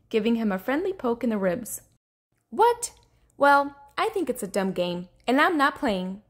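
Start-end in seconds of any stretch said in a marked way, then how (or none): 2.5-6.2 high startled start, then huffy; mildly angry. Acted. Rainbow Fish quitting the game, mild anger. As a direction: refuse in an understated huff. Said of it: "said Rainbow Fish angrily".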